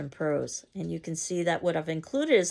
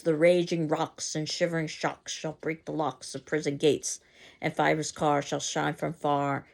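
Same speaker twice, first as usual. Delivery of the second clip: mock bad verse; 2 semitones lower than usual. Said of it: "it definitely isn't good".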